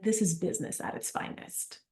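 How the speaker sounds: hushed whispered aside. Retold or imitated. Sitting at family lunch, whispered amused aside. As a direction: whisper it to yourself while laughing inside. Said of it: "I was like".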